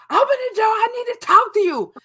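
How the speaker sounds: high, loud pounding-door yell; retold screaming. Ex-partner yelling at the door at night, loud high yell. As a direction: yell through the door to be let in. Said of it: "bamming and screaming at the door".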